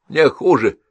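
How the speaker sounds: a hint of an old woman insisting; insistent old woman. A narrator's reading.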